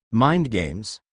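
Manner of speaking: startled disbelief at the accusation; a shocked echo of his words; aghast. A narrator's reading.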